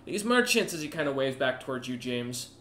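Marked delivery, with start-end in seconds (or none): 0.1-0.7 higher-pitched guard addressing a noble; guard stepping in. Acted. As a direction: step in as an insistent guard. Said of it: "up to the noble and goes".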